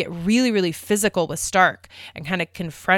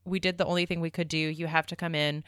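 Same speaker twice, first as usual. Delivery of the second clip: retold calm, grown-up reply; softer and quick, keeping it level; very adult; 7 dB quieter than usual. Retelling her answer to a panicked crewmate, softly adult. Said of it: "like, very adult about it".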